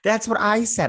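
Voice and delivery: breathy whisper. Real, not acted. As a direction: whisper it as an aside. Agreeing with sister's verdict.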